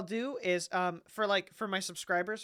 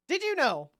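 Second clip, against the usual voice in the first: eager fun fact; 4 semitones higher, 4 dB louder than usual. Retold or imitated. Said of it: "I'll be like".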